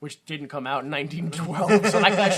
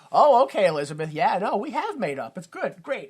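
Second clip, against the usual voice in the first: lightly acted placating, lilting upward; smooth things over too readily; put-on breezy reassurance; fake agreeable; 3 semitones higher than usual. Voices man faking a reconciliation.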